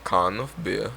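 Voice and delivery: can of beer in an accidental Jamaican lilt; Can of beer sounding Jamaican when English was intended; Jamaican-sounding accent. Shown as a demonstration. Friend asked for an English accent, comes out Jamaican-sounding. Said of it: "You just said bacon in a Jamaican accent".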